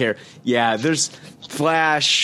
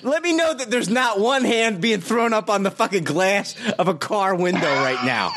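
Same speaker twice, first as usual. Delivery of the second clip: sarcastic; 5 semitones higher than usual. Real, not acted. Sarcastic rant at yawning cohost.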